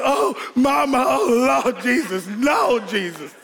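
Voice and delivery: high, wailing cries for mercy; mock pleading panic. Boys caught as mom gets in the house, mock pleading panic. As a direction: plead high, hammed-up, then trail down. Boys dreading mom's arrival.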